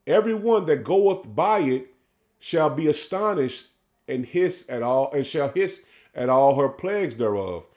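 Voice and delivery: measured, drawn-out scripture reading; solemn sermon reading; slow preaching scripture read. Acted. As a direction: lay each phrase out slowly like a preacher.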